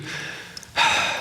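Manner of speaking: long calming sigh out; slow calming exhale. Shown as a demonstration. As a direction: breathe out slowly to settle. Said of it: "slow down your breathing".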